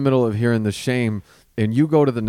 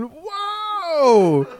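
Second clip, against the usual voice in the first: high laughing "Whoa!" in shock. Retold or imitated. Recalling his shock at grandma's story, laughing high. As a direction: gasp it out with a laugh. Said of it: "And I'm going".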